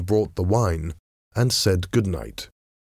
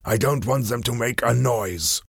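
lightly voiced villain giving an order; masked man ordering; 4 semitones higher than usual. Masked man orders his men to tie the captives, controlled command. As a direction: give a controlled command without shouting. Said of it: "he ordered".

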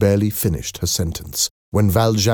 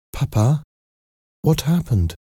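higher-pitched daughter's question; Cosette's voice; 7 semitones higher than usual. A narrator's reading. Cosette waking to question her father, higher-pitched. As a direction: ask papa in a raised, light pitch.

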